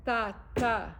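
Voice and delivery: "ta, ta" as weak then strong beat; iambic stress. Shown as a demonstration. Teacher demonstrating the iambic foot, second syllable stressed. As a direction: lean on the second "ta". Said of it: "This is called iambic".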